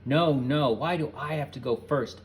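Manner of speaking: loud protesting cry; shrieked. A narrator's reading. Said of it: "Ed shrieked".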